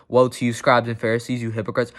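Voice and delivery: calm, even rebuke. Shown as a demonstration. Jesus calmly addressing scribes and Pharisees, calm. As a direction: say it evenly, without raising the voice. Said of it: "He may have said it calmly".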